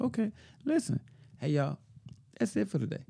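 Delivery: high, bright mock call to the crew; mock high announcement. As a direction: sing out a high fake-cheerful stop to the workers.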